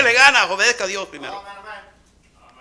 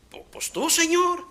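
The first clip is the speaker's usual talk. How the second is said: sheepish stammer; 7 semitones higher, 6 dB quieter than usual. Acted. Moisés stammering answer.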